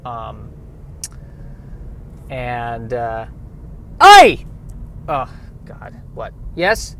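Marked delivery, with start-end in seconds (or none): 4.0-4.5 high, loud Irish paramedic voice; brash Irish paramedic; Irish accent. Acted. Phil returns shouting.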